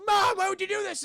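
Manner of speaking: lightly voiced hurt son; hint of Hubie. Hubie confronting his mother, lightly voiced whine.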